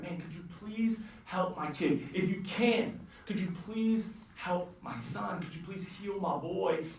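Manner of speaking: soft, pleading plea; pleading father. Retold or imitated. Father begging Jesus to heal his son, softly pleading. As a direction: beg quietly for help.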